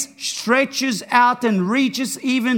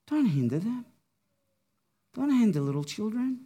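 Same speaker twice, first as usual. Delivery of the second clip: tender; 5 dB quieter than usual. Retold or imitated. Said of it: "he tenderly calls the children in".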